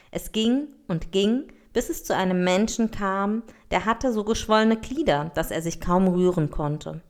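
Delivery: expressive fairy-tale read-aloud; story narration. A narrator's reading. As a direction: read a fable aloud with lively character lines. Reads an African tale aloud. (Märchen vorlesen)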